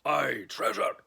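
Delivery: loud, high cheer of pirates; crew shout. Acted. Crew shouts about treasure, loud cheer. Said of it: "the others shouted".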